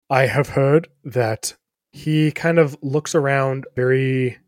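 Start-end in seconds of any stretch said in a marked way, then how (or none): 0.1-1.6 conspiratorial. Acted.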